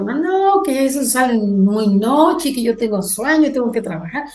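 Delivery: lightly voiced reluctant husband, dragging it out; lazy dad. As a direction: imitate a lazy dad begging off. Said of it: "mi papá bien flojo".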